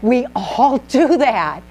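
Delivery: laughing through the words. Real, not acted. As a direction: chuckle as you say it. Laughing while admitting.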